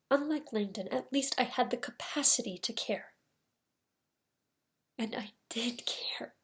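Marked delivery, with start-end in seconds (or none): 5.0-6.3 soft, slow confession; quiet admission. Acted. Lawyer admitting Angel got to him, quiet and slow. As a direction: admit it slowly, almost to yourself.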